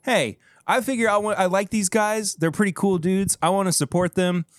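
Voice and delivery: mock inner voice of a supporter; imagined listener. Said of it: "what the heck are you thinking right now?".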